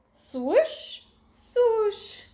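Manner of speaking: rising then high swooshing sound; hose swoosh. A narrator's reading. Smokey spraying out the fire station.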